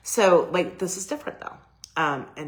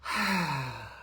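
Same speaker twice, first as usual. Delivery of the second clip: release sigh. Shown as a demonstration. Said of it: "breathing comes in that I teach you".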